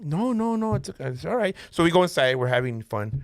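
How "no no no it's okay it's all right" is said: high-pitched placating voice, lightly acted; smooth it over in a raised pitch; retold soothing, pitched up; hasty reassurance. Hurrying to reassure a worried date.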